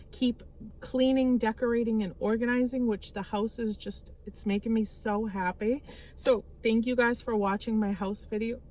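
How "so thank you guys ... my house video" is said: talking through hiccups; words broken by a hiccup. Real, not acted. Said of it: "Sorry, I'm hiccuping again".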